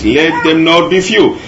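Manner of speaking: mild emphasis on "Let them not be few"; emphasised phrase. Shown as a demonstration. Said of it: "We are going to emphasize on that a little bit".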